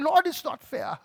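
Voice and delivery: high, loud, building protest; impassioned, self-pitying rant; indignant complaint to God. Retold or imitated. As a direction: cry out "why" as if badly wronged. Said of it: "I was sitting there saying".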